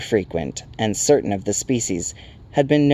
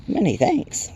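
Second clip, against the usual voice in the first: lightly voiced timid sprite, higher; a hint of shy politeness, raised pitch; timid Will-o'-the-Wisp; 8 semitones higher, slower than usual. A narrator's reading. Timid sprite thanking its hosts, slightly shy high voice. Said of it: "coming timidly closer".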